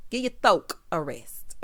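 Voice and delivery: high burst of laughter after a flubbed word; tickled cackle; laughing at slip. Real, not acted. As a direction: giggle at your own tongue slip.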